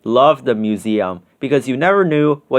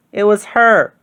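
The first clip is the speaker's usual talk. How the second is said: higher, pointing blame; accusing girl; 6 semitones higher than usual. Acted. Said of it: "said the girl".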